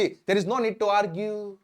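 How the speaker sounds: very slow, word by word, for learners; slow dictation. Shown as a demonstration. Teacher to students, slow clear dictation. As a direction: spell it out slowly so students can write. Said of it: "teacher dictates English model sentence".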